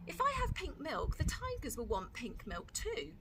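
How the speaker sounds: high, cheeky little sister; Lola's little-girl voice. Acted. Lola voiced by reader.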